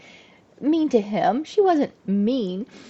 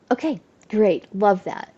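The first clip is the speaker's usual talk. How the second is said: resigned sarcasm. Retold or imitated.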